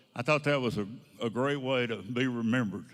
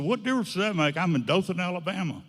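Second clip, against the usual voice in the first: retold impatient retort; 5 semitones higher than usual. Boss brushes off question, impatient.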